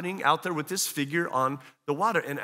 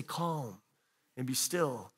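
hushed command; 6 semitones lower, 9 dB quieter, much slower than usual. Retold or imitated. God calming the storm.

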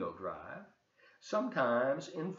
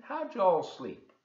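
slow drawled question; 6 semitones higher, 5 dB louder, slower than usual. Acted. Princess asks the family.

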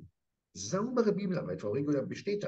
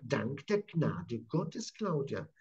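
reverent; much slower than usual. Acted. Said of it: "Und er sagt".

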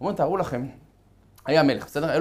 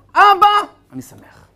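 frail son's cry; 12 dB louder than usual. Acted. Sick son's first words.

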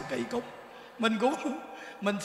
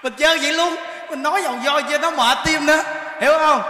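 excited boast; 4 semitones higher, 8 dB louder than usual. Real, not acted. Thầy hăng hái kể.

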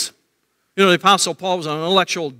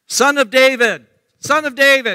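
raised, high-pitched calling out; shouting; 9 semitones higher, 5 dB louder than usual. Acted. Blind Bartimaeus calling to Jesus, high raised shout. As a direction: call out over a crowd. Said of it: "And he was shouting".

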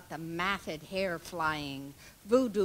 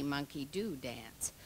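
whisper; 4 semitones lower, 8 dB quieter than usual. Acted. Whispered line in poem recital.

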